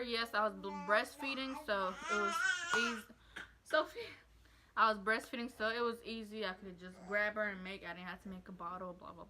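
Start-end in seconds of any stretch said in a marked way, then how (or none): 0.0-4.0 holding back a small sob mid-sentence; choked up. Real, not acted. Mom on her birth vlog, getting teary, tearful catch. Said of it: "Sorry I got emotional".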